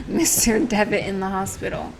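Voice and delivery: a small laugh while correcting "Mister Devitt"; laughing retake. Acted. Player redoing a fumbled line about the hospital, laughing. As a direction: reread the line through a slight laugh.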